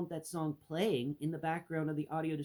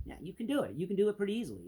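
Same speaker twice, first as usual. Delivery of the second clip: much higher, put-on voice; changed voice tone; 8 semitones higher, 4 dB louder, much faster than usual. Shown as a demonstration. Vlogger showing tone changes are easy, high put-on voice. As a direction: flip into a high demo voice. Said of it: "not hard to change the tone of voice".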